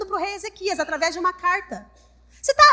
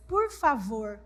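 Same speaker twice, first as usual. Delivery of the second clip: timid plea; 7 semitones lower, 7 dB quieter, slower than usual. Acted. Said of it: "Eles falam pro inimigo".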